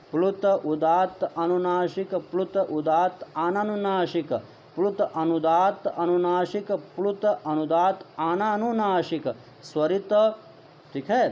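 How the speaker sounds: each term said clearly with a pause, ह्रस्व leading every item; measured recitation. Shown as a demonstration. Teacher showing students how to say the terms, deliberate recitation. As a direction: recite the list carefully like a Sanskrit teacher. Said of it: "वही प्रक्रिया हम यहाँ प्लुत में भी लेंगे".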